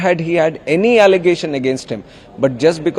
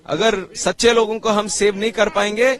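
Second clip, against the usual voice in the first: fast impassioned speech; 4 semitones higher, much faster than usual. Real, not acted. Politician speaks fast at protest.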